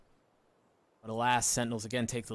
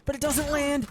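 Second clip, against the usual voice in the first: surprised; 13 semitones higher than usual. Real, not acted. Caster reacts to a trip.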